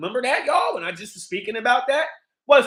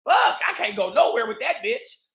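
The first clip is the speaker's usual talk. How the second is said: frustrated shout; 10 semitones higher than usual. Retold or imitated. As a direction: blow up in disgust. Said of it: "I'm like".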